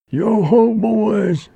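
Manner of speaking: high, loud holler to the team; hearty high-pitched call; driver's shout. A narrator's reading. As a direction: sing out to the boys from the driver's seat. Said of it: "shouted the driver".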